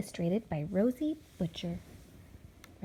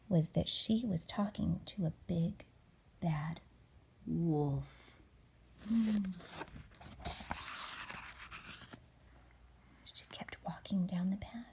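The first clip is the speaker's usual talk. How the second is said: suspenseful whisper; 3 semitones lower, 7 dB quieter than usual. A narrator's reading. Suspense narration.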